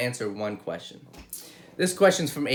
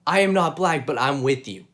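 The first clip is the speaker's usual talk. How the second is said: passionate; 5 dB louder than usual. Real, not acted. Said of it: "I'm just passionate about this".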